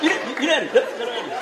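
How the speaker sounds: peer like a rooster spotting a friend; mock rooster calling yalla. Imitating a rooster peering.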